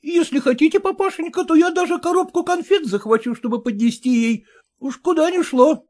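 put-on high, eager, fawning young man; a clerk eager to please his father-in-law; eager son-in-law. Son-in-law eagerly agreeing to father-in-law, voiced high. Porfiry offers candy.

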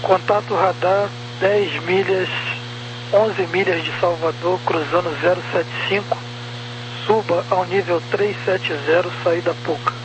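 slow controller over radio; over walkie talkie. Real, not acted. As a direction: read out clearances over a radio. Controller clearing flight by radio.

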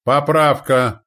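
loud, high, drawn-out call; slow-stretched commander's shout; barked order. A narrator's reading. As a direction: bark a correction to the crew. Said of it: "рявкнул командир".

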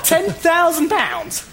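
slow, high incredulous repeat; stunned disbelief at the amount; open-mouthed shock at the figure. Acted. Adviser repeats amount again.

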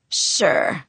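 voiceless, smoker's rasp; hoarse voice. Acted. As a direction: croak it like a chain smoker. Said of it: "I sounded like a chain smoker".

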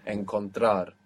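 Encontrar with the weight on TRAR; final-syllable stress. Shown as a demonstration. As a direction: land on the end of Encontrar. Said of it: "the accent is coming on the end".

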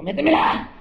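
high, loud mock cry of passion; hammed-up lusty wail; mock moan. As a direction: wail it like the woman next door.

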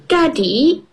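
put-on high little girl voice; child voice. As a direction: squeak it like a small piglet. Peppa voiced in story.

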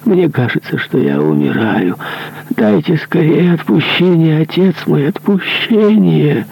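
desperate plea. Acted. Dying executioner begging the monk for absolution, high and desperate. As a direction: beg for absolution before death.

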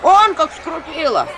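high, loud, slow wail; clamouring complaint. A narrator's reading. Villagers clamour at the healer, loud wailing. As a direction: wail about the pain. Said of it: "загалдела деревня".

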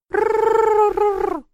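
long, high, loud rolled growl; long dragon growl. A narrator's reading. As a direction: let the little dragon rumble on and on. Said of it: "она оскалилась". (долгое рычание дракона)

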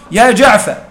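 "يا جعفر" said with its fatha kept on the fa; keeping the fatha. Shown as a demonstration. Teacher to students, demonstrating the fatha kept in "يا جعفر". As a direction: stress the open a of "يا جعفر". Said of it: "فتقول على اللغة الثانية في جعفر".

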